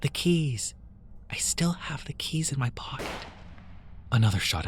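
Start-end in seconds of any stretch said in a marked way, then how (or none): 0.0-3.1 urgent whisper; hushed in the dark. Acted. Hiding in the dark.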